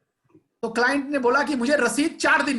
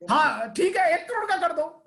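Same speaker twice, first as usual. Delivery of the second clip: raised pitch, riled-up snap back; heated retort; 5 semitones higher than usual. Retold or imitated. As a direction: toss it back like a challenged customer. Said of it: "वो ताव में आ गया".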